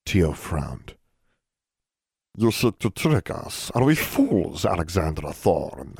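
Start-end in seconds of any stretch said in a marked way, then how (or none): 2.3-6.0 sensing a trick; suspicious elf leader. Acted. Tio suspicious.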